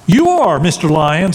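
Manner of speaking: cower and squeak it to the lion; fearful monkey. Acted. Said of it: "said the monkey with fear in his voice".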